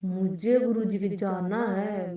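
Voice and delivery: slow, drawn-out retold demand; irritable, tearful insistence. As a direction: mildly re-enact a stubborn, upset plea. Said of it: "रोने जैसी, चिड़चिड़ी जैसी हो गई, गुस्सा करने लगी".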